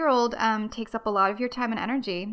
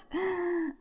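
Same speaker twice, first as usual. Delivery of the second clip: mock gasp; 8 semitones higher than usual. Mock alarm at forgetting.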